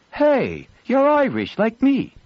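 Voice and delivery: excited recognition. Acted. Girl recognizes his accent.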